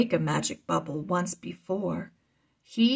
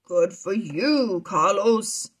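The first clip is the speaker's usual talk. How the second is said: cheer; 3 dB louder, slower than usual. Acted. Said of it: "Diego cheered".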